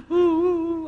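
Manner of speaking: high, drawn-out pretend sobs; mock child wailing. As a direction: imitate a child crying "woo". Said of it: "小孩哭得这么惨呐". (模仿小孩惨哭)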